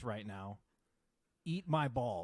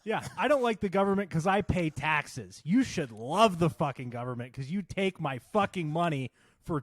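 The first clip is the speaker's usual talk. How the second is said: angry rant; 7 dB louder than usual. Real, not acted. Ranting at the government.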